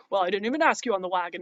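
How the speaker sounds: mock cowboy voice. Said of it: "and then he's like".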